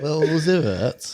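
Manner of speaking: slow, drawn-out northern English accent. Shown as a demonstration. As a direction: stretch the name in a northern accent. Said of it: "In your best northern accent".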